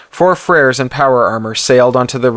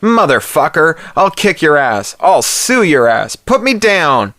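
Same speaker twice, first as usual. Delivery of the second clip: yelled high and louder, furious; angry howl; 7 semitones higher, 3 dB louder than usual. Acted. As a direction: howl it out, outraged at being hauled up. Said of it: "The Trustafarian howled".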